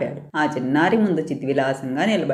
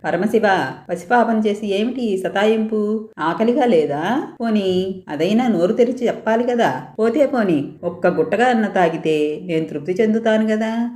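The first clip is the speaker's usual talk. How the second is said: mild begging, a bit higher; 5 semitones higher than usual. Acted. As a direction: plead like a worried little girl. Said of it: "బ్రతిమాలుతోంది". (బాలిక మెల్లగా బ్రతిమాలుతూ)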